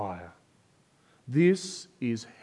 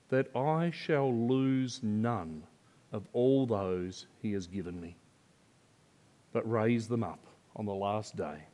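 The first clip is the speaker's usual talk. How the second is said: hushed reverent reading of Jesus' words; scripture reading; 3 semitones lower than usual. Acted. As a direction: read the verses gently and reverently. Reads the scripture passage aloud.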